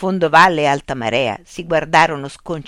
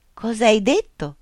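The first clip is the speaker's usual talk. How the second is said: sharp, higher indignant outburst; startled snap; 7 semitones higher than usual. A narrator's reading. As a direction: burst out in disbelief. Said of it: "sbottò Altamarea".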